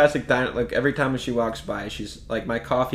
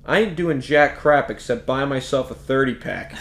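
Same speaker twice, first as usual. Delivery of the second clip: laughing through a gruff waitress line; diner waitress. Retold or imitated. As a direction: tough old waitress, half laughing. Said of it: "But she said".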